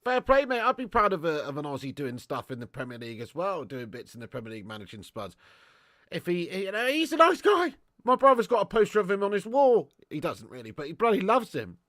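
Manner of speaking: put-on matey Aussie accent; Australian accent. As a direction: chat like an Aussie bloke. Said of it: "Gr-, great accent".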